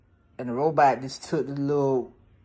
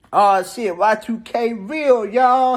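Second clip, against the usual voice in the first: excited shout; 5 semitones higher, 5 dB louder, slower than usual. Retold or imitated. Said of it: "Chris, said".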